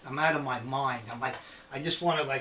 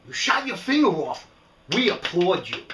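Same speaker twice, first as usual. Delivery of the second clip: mock cheering; 5 dB louder than usual. Mocking producers who reward injuries, sarcastic cheer. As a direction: cheer it like a fake fan.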